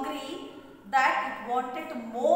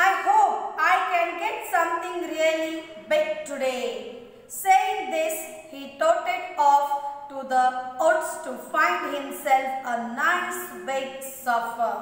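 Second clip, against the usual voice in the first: raised, emphatic classroom reading; story read-aloud; 2 semitones higher, 4 dB louder than usual. Acted. Teacher reads the fox story to children, emphatic read-aloud.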